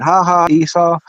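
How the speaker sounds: retold gloating jeer; mocking laugh. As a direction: taunt him with a fake laugh. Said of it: "I started laughing at him".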